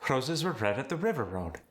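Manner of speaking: Roses, red, river, road with a slightly rolled R; South African rolled R. Shown as a demonstration. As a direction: roll the R of river lightly. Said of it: "The slight rolled R".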